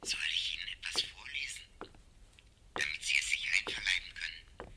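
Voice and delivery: a soft whisper of an offer. Acted. Professor whispering an offer to read to Montag. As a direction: whisper it gently. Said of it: "Ich werde Ihnen zuflüstern".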